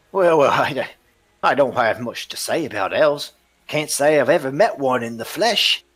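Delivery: high, loud flustered dodge; nervous smuggler. Acted. Smuggler dodges the elf's question, high and loud. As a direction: squirm out of the elf question.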